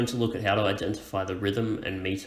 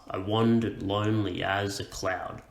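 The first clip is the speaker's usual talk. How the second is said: "I wandered lonely as a cloud" in a ba-BA beat; bouncing rhythm. Shown as a demonstration. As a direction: stress WAN, LONE, AS, CLOUD in "I wandered lonely as a cloud". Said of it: "this kind of bouncing rhythm".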